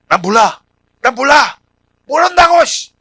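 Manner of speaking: 점점 높고 커지는 거친 고함; 저주하듯 몰아붙이며 점점 세게 외치기; 공격적인 부인. Acted. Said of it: "저주하는 듯한 공격함이". (저주하듯 공격적으로 소리치기)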